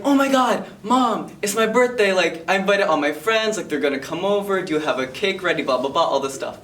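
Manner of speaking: put-on a kid begging mom about her birthday; excited kid whining to mom. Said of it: "I'm like".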